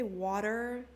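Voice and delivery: "water" with an American accent. Shown as a demonstration. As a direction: attempt "water" as an American says it. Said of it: "in American accent".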